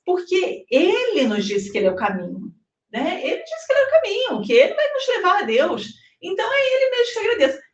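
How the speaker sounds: high, fast, eager and laughing; eager retold answer. Answering the doubtful American man, fast and high. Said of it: "Eu falei".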